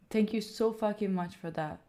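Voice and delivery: softened, heartfelt gratitude; sincere thanks. Real, not acted. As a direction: thank them quietly and earnestly. Thanks donor, first take.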